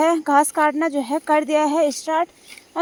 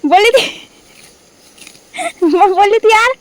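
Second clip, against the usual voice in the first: quoting mom's dialogue; 4 semitones higher, 5 dB louder than usual. Retold or imitated. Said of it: "mummy एक dialogue बोलती है".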